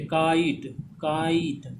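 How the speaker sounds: काइट with long "aa" gliding into "ee"; काइट sounded out for learners; two vowels sounded. Shown as a demonstration. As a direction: draw out "kaa-eet" for काइट. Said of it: "आ ई का sound आ रहा है".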